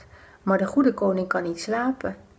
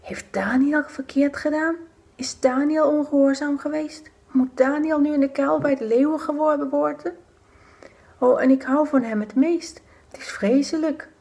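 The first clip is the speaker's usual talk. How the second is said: higher, distressed royal voice; dismayed king; 6 semitones higher than usual. Acted. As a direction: ask it in growing dismay. (ontstelde koning)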